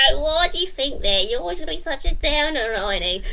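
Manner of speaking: cheery critter teasing a friend; lightly voiced cheery creature; Eenie character voice.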